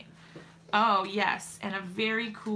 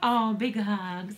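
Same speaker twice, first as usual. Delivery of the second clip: tender reply; 3 dB louder, much slower than usual. Real, not acted. Mother responds tenderly.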